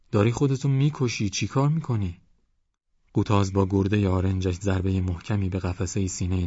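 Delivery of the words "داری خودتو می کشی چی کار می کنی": high, anxious remonstration; alarmed protest. A narrator's reading. Wife trying to stop her frantic husband, alarmed. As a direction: plead with him to stop, pitched up.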